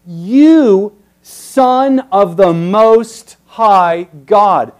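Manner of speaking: demon's confession. Retold or imitated. Demon title, slow and loud.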